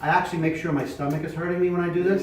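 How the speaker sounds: booming diaphragm projection, slowing down; loud projected voice. Shown as a demonstration. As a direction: fill the room from your stomach. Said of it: "So when I talk real loud".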